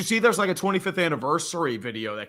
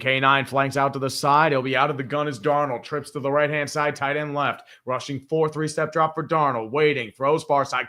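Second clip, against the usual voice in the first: sportscaster calling the play. Acted. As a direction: call it like a TV announcer. Live game play-by-play.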